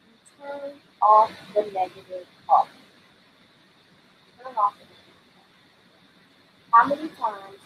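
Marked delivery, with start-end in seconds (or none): 4.4-6.7 slow, hushed whisper of the words. Shown as a demonstration. Coach urging listeners to silence inner critic, whispered. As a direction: breathe the line out slowly, almost secret. Repeats the line, then whispers it.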